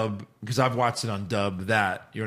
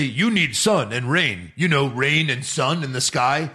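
slow, dumbed-down explaining; over-explaining dub voice; slower than usual. Retold or imitated. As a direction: spell it out slowly like a bad dub. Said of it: "why would you over-explain the sun".

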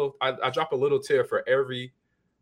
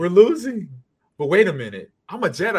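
high, loud mock panic then resolve; mock panicked Luke; 6 semitones higher, 7 dB louder than usual. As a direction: Luke panicking, then remembering he's a Jedi. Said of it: "He's like".

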